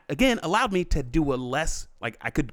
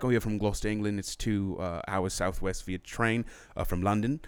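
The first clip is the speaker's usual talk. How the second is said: put-on understated, lower English accent; 3 semitones lower, 5 dB quieter than usual. Explaining the fake hometown, in a mild English accent. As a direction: put on a low-key Gloucester accent. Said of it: "my accent sort of went away".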